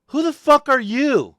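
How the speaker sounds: shouting back at a stranger; retold angry shout. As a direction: hurl it back at the cop. Retold shouting match with cop.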